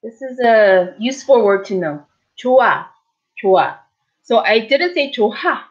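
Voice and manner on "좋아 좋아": 좋아 with the H nearly silent; 좋아, no final T sound. Shown as a demonstration. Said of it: "It's almost silent".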